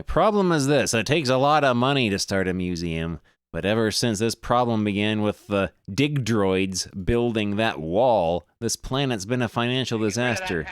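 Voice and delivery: lightly hammed Australian accent; Australian adventurer voice. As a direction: play the greasy Aussie digger, mate. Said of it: "I can't keep doing that voice".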